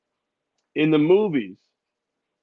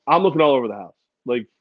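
ordinary talk, nothing marked

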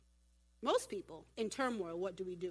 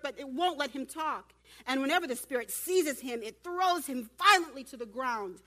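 lightly acted urgent father, louder at first; a touch of desperate appeal from the crowd; pleading father; 3 semitones higher, 4 dB louder than usual. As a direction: call out, then pour out the plea. Acting father pleading with Jesus.

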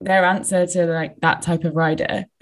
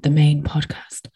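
whispered aside; 4 semitones lower, slower than usual. Real, not acted. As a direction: whisper it like a secret. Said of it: "say it, whisper it".

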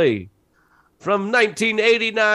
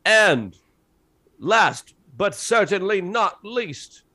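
nineties trailer voice; 3 dB louder, slower than usual. Acted. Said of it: "this is my nineteen nineties trailer voice".

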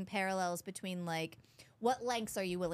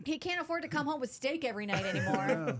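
put-on Southern accent; 5 semitones higher than usual. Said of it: "when you do the Southern accent".

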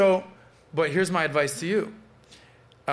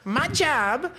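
imitating an Asian woman's accent, pitched up; mock Asian accent; 10 semitones higher than usual. Quoting the viral Asian woman in a high mock accent. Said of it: "and she goes".

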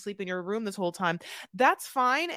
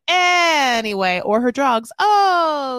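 laughing hard; 6 semitones higher, 13 dB louder, much slower than usual. Real, not acted. Laughing while ranting.

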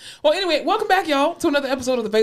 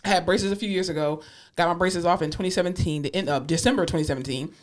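speaking around a retainer; lisping slightly with a retainer; wearing a retainer. Real, not acted. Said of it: "I have my retainer in".

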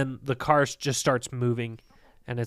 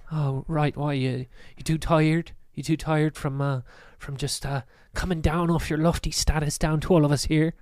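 mildly sarcastic stranger; a touch of cocky needling; attitude. Acted. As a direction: lightly goad them with mock sympathy. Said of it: "he's got some attitude to it".

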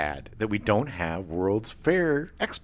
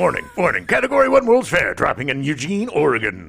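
news alert voice; 4 dB louder than usual. Pretend. Mock emergency weather alert.

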